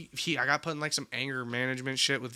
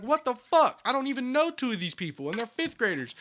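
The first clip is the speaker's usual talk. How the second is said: retold outraged shock; 8 semitones higher than usual. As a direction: throw it up high, outraged kid. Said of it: "I'm like".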